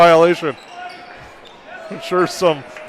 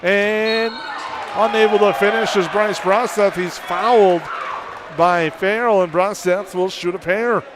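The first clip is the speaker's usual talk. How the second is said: play-by-play; 2 semitones higher than usual. Real, not acted. Live play-by-play call.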